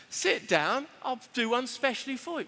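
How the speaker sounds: friendly London cafe-owner voice; London accent, obliging. Shown as a demonstration. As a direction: welcome a late customer in a London accent. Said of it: "do it in a London accent".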